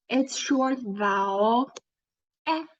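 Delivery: eh with a flatter mouth, short and clipped; short e sound as in hen; short vowel eh. Shown as a demonstration. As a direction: say eh short, lips flat. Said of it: "The mouth should be a little bit flatter".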